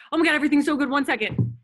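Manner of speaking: fast, loud, breathless mock panic swinging up and down; mock whiplash excitement. Coach showing the team the whiplash of chasing results, fast mock excitement. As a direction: rattle it off like emotions jerking back and forth. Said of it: "because you'll feel like".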